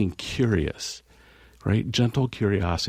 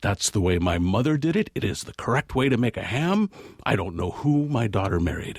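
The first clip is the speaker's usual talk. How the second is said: imitated glaring, angry tone; 3 semitones higher than usual. Retelling a story, voicing the mother's reply: imitating an angry mother. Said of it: "looked at him with daggers and said".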